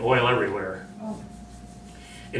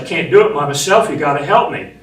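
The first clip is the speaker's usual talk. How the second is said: raised urgent plea for help; urgent shout; 2 semitones higher, 6 dB louder than usual. Retold or imitated. Marine begging a wedged shipmate to help, urgent shout. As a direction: call out straining to pull a trapped man. Trapped sailor, pulling wounded shipmate.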